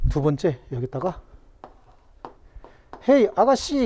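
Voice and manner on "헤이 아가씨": calling bird. Acted. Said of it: "그러고 부르니까".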